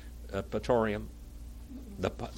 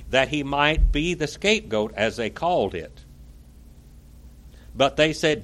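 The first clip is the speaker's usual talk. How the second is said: declaimed first-person historical account; dramatic reading; 3 dB louder than usual. A narrator's reading. Preacher reading Pilate's account to listeners, dramatic reading. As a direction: read it out with oratorical weight.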